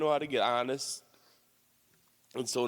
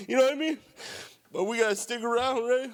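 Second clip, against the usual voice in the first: frustrated; 9 semitones higher, 4 dB louder than usual. Real, not acted. Frustrated rant at the group.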